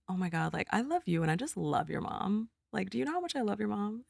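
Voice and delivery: softly voiced affectionate friend; quiet, lightly acted affection; tender quote. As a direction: quote a loving friend gently. Voicing friend's loving text.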